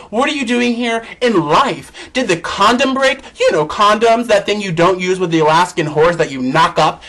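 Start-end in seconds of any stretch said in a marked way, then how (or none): 0.1-3.2 sassy put-down. Pretend. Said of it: "take it one step further and say".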